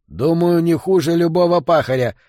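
angry retort. A narrator's reading. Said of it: "сердито ответил Стукс". (сердитый ответ)

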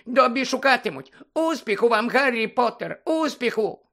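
high, slow squeaky elf voice; Dobby the house-elf squeaking at Harry. Acted. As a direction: squeak it like an anxious little elf.

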